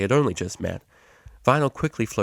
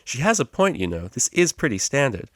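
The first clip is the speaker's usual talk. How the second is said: cheery tutor; 6 semitones higher than usual. Acted. Psych voiced by narrator.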